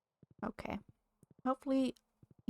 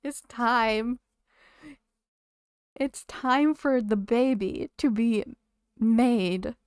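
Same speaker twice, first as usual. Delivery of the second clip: game character voice; 2 semitones higher, 9 dB louder, much slower than usual. Acted. Game character voiced, loud far.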